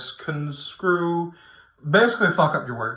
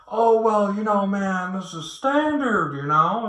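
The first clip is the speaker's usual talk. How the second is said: higher, drawn-out mock excuse; mock dismissive friend; 5 semitones higher than usual. Best friend excusing a shitty contract, mock dismissive. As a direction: imitate a buddy brushing it off, pitched up.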